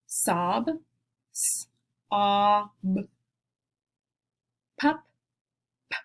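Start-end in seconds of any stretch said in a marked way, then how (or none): 2.1-2.6 "a" punched louder as the peak of the word; stressed vowel. Shown as a demonstration. Teacher to class, showing the middle vowel, stressed loud. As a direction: hit the vowel "a" hard, like the top of a roller coaster. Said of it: "really emphasizing that middle vowel sound".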